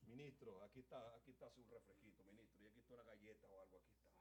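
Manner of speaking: a hint of a fake, angelic host; sweet as an angel. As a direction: play the innocent, all sweetness. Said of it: "con esa cara como un angelito".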